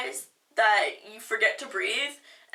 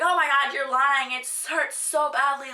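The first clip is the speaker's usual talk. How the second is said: mock outraged complaint; 3 semitones higher, 3 dB louder than usual. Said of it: "and be like".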